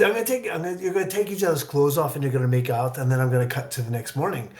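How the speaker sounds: director's Scottish lilt, imitated; imitated Scots accent; Scottish brogue. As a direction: pitch an idea in a Scottish brogue. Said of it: "he has this great brogue".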